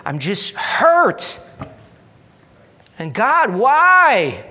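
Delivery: a hurting man crying out why to God; anguished cry to God. Acted. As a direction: plead up to heaven, voice climbing. Acting a hurt prayer.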